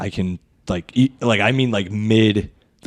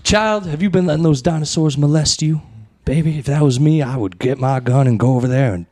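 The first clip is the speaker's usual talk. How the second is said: Medea voice; 2 semitones higher than usual. Pretend. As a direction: scold like a fierce grandma. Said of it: "Medea voice riffing".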